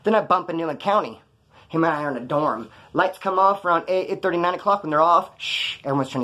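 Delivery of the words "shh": drawn shushing sound; a quick hush for quiet. Retold or imitated. Hushing the dorm after lights out, hushing.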